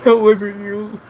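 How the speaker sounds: high, put-on imitation of her; mocking falsetto retort. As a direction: parrot her back, exaggerated. Mimicking viewer's reply.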